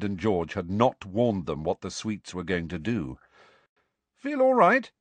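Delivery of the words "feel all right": kind. A narrator's reading. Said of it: "said George kindly".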